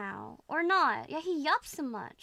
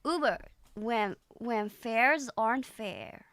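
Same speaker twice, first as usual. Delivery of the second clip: Scottish accent attempt; 3 semitones lower, slower than usual. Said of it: "this one's harder than Scottish".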